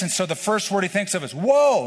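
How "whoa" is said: high loud panicky "Whoa!"; panicked whoa. Retold or imitated. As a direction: yell to stop a runaway horse. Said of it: "He panics".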